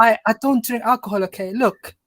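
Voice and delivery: light attempt at a Somali accent. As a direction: play it as a Somali uncle with a Somali accent. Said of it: "Is that the Somalian".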